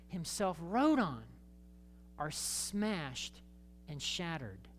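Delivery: from booming to a near hush; dramatic build then hush. Real, not acted. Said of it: "dramatic sermon climax then hush".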